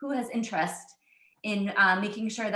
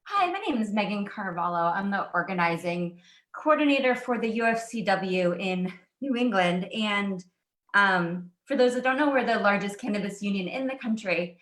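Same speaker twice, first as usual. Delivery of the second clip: breathless after running upstairs; panting between words; out of breath. Real, not acted. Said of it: "I'm out of breath".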